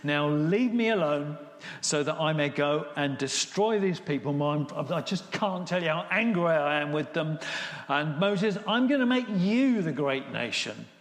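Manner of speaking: forceful, exasperated outburst as an angry God; acted fury. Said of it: "God is really furious about this".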